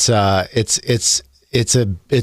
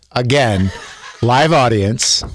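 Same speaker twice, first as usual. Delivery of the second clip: laughing; 3 semitones higher, slower than usual. Real, not acted. Joking about repeated word.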